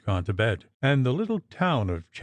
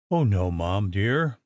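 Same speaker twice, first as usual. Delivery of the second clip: soothing maid. Acted. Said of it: "replied Betty".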